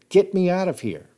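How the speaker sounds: high, loud plea; desperate shout. Retold or imitated. Hunter in the trunk begging to be let out, shout. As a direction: shout to be freed. Man locked in car trunk.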